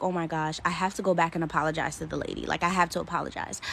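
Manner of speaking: fast, low, anxious muttering; panicked inner thought. Retold or imitated. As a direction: rush it out in a panic.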